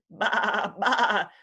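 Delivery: quavering storybook sheep baa; sheep bleat. A narrator's reading. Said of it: "bleated the sheep".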